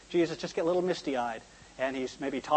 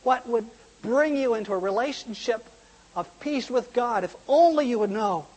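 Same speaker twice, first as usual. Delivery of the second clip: imitating bawling lament; 6 semitones higher than usual. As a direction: cry out in grief, acted without real sobs. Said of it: "he's bawling like a baby".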